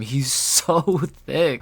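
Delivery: "thick" blurted through a laugh. Real, not acted. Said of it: "struggling to say anything other than".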